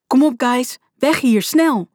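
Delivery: high, hurried-sounding rallying cry; urgent shouting. A narrator's reading. Friend urges the group to flee, shouting urgently.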